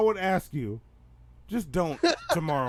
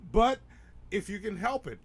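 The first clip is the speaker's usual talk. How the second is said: ordinary talk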